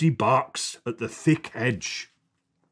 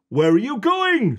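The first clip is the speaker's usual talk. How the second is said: a hint of a child's voice, higher; girl asking where they're going; lightly voiced little girl; 9 semitones higher, 3 dB louder than usual. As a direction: ask it like a curious small girl. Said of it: "says Poppy".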